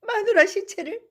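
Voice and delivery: high, crying voice breaking; drunken sobbing. Acted. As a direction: weep over his dead wife. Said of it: "훌쩍훌쩍 울기 시작하였다".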